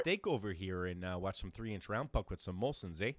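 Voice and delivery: hammed-up Canadian accent with a drawn eh; mock Canadian accent. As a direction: play a Canadian hockey fan, lightly. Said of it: "literally exactly how they sounded".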